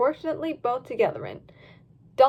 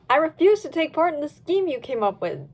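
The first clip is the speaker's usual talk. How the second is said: firm; 3 semitones higher than usual. Acted. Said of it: "Dylan said firmly".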